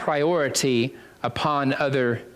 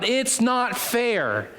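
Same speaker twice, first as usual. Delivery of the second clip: mock childish cry; 6 semitones higher, much slower than usual. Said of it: "I'm gonna cry out".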